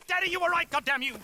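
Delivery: theatrical lament. Acted. Theatrical outburst at absent father.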